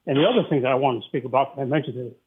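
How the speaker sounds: short of breath, breathing hard. Real, not acted. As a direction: talk while winded. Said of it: "I'm a little out of breath".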